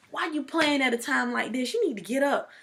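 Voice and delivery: mock exasperation at a joker; exasperated scolding. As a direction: retell it as a fed-up telling-off. Scolding boyfriend for joking at proposal.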